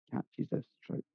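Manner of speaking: ominous whispered warning; hushed warning. Acted. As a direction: drop to a near whisper on the last words. Old man warns of sacred trout.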